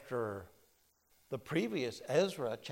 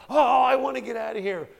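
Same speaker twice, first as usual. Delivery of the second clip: much higher and louder, pleading to get out; desperate prisoner; 9 semitones higher, 14 dB louder than usual. Retold or imitated. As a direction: beg to be set free. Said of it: "The one guy says".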